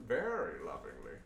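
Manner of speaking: slow, low, drawn-out lingering delivery; mock-loving. Caster joking about exploring the game, mock-loving. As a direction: stretch it out with lingering mock tenderness.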